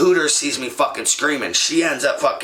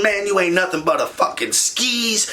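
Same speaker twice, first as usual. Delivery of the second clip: raised, higher angry telling-off; going off; 6 semitones higher than usual. Retold or imitated. Yelling at his cheating girlfriend in a raised angry voice. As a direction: let her have it, voice pitched up. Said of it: "I am going off".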